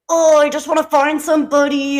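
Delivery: fed-up friend, lightly mimicked; mock frustration. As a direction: imitate a friend fed up with dating. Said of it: "getting so frustrated".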